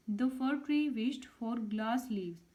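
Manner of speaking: reading each word out slowly and clearly; slow dictation. Shown as a demonstration. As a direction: spell it out for pupils, unhurried. Teacher reads worksheet answer.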